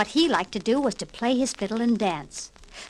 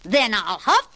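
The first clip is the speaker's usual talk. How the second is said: slow, louder menacing wolf voice; roaring wolf; 3 semitones higher, 4 dB louder, slower than usual. Acted. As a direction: threaten the pig, drawn out. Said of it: "roared the wolf".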